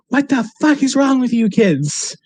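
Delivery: high, slow, strange-voiced mock tirade; hammed-up crazy neighbor yelling at kids; imitated yelling old lady. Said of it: "she's just yelling at poor Donovan".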